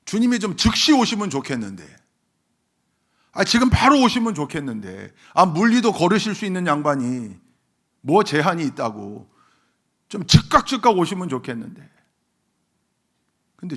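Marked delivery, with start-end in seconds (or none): 0.0-11.9 loud, high pleading complaint; impatient preaching. Acted. Preacher voicing people wishing the Lord came now, impatient preaching. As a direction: push the wish out urgently, voice raised. Voices impatient wish at full force.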